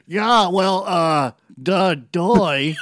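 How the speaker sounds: dragged out, dopey da doy; slow mocking da doy. Mocking co-host's slow reading, dragged out. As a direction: draw out da doy like a dope. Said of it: "you read it like".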